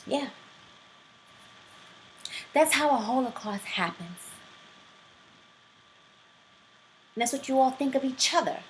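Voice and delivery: lightly acted teacher confronting her students; Erin Gruwell. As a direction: deliver a measured lesson with pointed pauses. Performs teacher's monologue from Freedom Writers.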